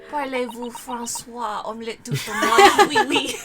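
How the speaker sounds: fake French. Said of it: "feign her?".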